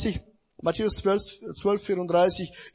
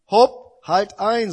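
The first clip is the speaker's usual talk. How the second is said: sharp interruption; 7 dB louder, much slower than usual. Acted. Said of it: "unterbrach der Weise ihn".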